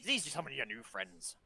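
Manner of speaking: put-on hearty gruff old dockside man, loud greeting; a big old sailor booming hello to a friend; burly old man voice. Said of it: "and he's like".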